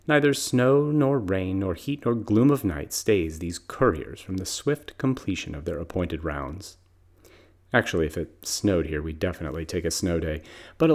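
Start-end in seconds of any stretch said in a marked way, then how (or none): 0.1-6.8 solemn recitation. Acted. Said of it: "like the U S Post Office".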